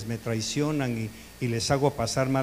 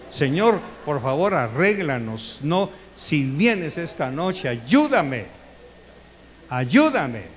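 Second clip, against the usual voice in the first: pleading prayer; slower than usual. Acted. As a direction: beg the Lord for help, slowly. (súplica lenta y fervorosa)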